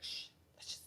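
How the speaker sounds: very soft, whispered shush; imitated shushing. Mimicking Churchill silencing talk of weapons, whispered hush. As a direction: shush them in a barely audible whisper.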